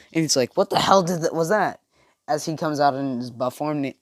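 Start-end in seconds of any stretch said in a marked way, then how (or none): 0.6-1.8 louder, higher startled question; startled disbelief; shocked. Acted. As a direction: blurt it out, taken aback. Acted shock after sudden healing.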